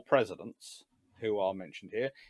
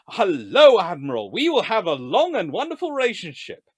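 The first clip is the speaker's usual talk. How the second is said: hammed-up cheery minister; 9 dB louder than usual. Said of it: "yet another new minister".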